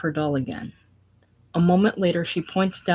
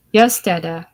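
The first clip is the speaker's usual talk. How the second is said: protesting; 7 dB louder than usual. Acted. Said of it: "Mary, protestingly".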